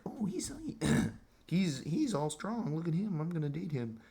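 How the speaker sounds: mock swooning woman. Imagined woman admiring his gym body, high mock gushing. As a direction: gush over him like a smitten girl. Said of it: "a woman's gonna look at me and be like".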